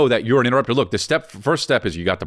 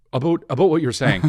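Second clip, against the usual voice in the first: slightly higher, hammed-up Canadian accent; mock Canadian; 4 semitones higher than usual. Co-host teased for apologizing, leans into a Canadian accent. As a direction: play up a Canadian "about". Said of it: "Why are you being Canadian".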